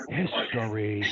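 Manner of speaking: "history" with "his" whispered, "tory" in regular voice; whispered first syllable. Shown as a demonstration. Coach explains the split, "his" whispered in "history". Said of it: "I'm whispering hiss".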